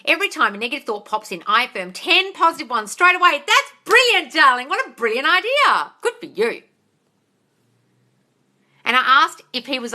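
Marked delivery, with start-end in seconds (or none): 3.5-6.6 high, loud gushing approval; delighted praise. Real, not acted. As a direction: praise them with real excitement. Praises a follower's good habit.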